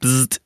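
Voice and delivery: short imitated zap; buzz noise. Shown as a demonstration. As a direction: echo the buzzing title. Repeats the buzzing title.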